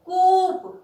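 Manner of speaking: कूप with the ऊ pulled long; stretched long u. Shown as a demonstration. Teacher showing pupils the long u, stretched out. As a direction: drag out the ऊ in कूप. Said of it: "खींच रही है मात्रा".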